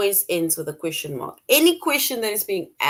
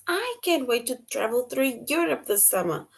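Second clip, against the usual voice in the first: excited; 4 semitones higher than usual. Shown as a demonstration. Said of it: "all excited".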